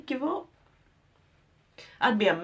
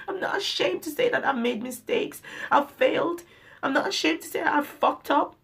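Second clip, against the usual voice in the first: quick, raised voice, full of feeling; emotional confession; 3 semitones higher, faster than usual. Real, not acted. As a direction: pour it out, close to tears but pushing on. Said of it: "I'm sorry for being emotional".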